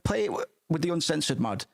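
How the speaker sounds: hammed-up rave review voice; gushing reviewer. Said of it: "on Steam are like".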